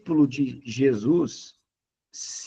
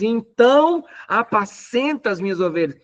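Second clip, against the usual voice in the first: higher, emphatic Jesus quote; raised voicing of Jesus; 7 semitones higher than usual. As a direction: proclaim it as Jesus, lifted up. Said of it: "ele diz".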